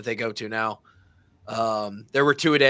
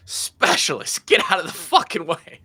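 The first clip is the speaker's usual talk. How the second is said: barking coach; 5 semitones higher, 6 dB louder than usual. Retold or imitated. Coach Parker yelling at the specialists to clear out, loud bark. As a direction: yell it like an annoyed coach clearing the field.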